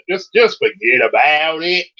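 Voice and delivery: New York accent, brusque "forget about it"; New York "fuggedaboutit" demo. Shown as a demonstration. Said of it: "Now for a New York accent".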